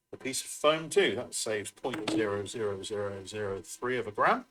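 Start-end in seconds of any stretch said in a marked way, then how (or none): 1.2-4.4 talking between slurps of a drink; slurping a hot drink mid-sentence. Real, not acted. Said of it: "Excuse me for slurping".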